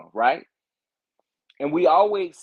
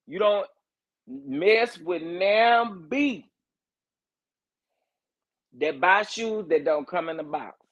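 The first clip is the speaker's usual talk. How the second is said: drawn-out, high country-accent imitation; Miss Wanda; 5 semitones higher, slower than usual. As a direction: quote her in a raised, slow country accent. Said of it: "Miss Wanda tells everybody that she already told".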